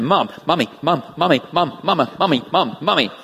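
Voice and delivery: put-on repetitive sing-song kid calls for mom; a hint of a clingy kid nagging mom; kids calling mom. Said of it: "They only do it to Suzanne".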